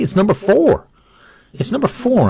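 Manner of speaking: excited. Real, not acted. Announcing the winner excitedly.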